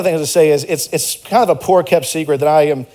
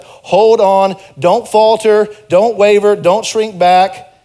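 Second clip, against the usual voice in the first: higher and louder, pleading; rising earnest plea; urgent exhortation; 4 semitones higher, 4 dB louder, much slower than usual. Acted. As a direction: urge them not to give up, slowly. Urging church to persevere.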